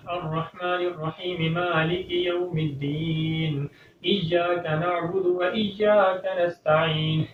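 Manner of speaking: Fatiha recited with sin in place of saad; slow recitation with a thin sin in الصراط; imitating common mistake. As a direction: recite like someone who says sirat with a sin. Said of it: "وہ کس طریقے سے پڑھتے ہیں".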